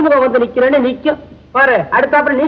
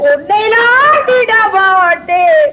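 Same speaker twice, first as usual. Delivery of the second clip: mock threat; 6 semitones higher, much slower than usual. Detective mock threat, drawn out.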